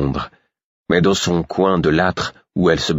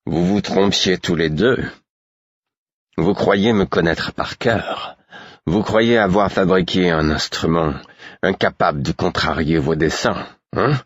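put-on drunken smugness; 2 semitones higher than usual. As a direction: sneer at them like a drunk who knows better. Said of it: "avec la lourde suffisance de l'ivrogne".

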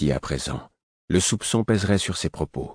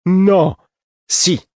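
loud, high one-word volleys; shouted contradiction, pitched high; quarrelling; 13 semitones higher, 9 dB louder than usual. A narrator's reading. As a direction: squabble like two stubborn children. Escalating yes-no quarrel.

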